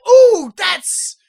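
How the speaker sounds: imitating a reluctant crowd; mock sympathy. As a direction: stretch it out with hammed-up regret. Acts out mob's mock sympathy.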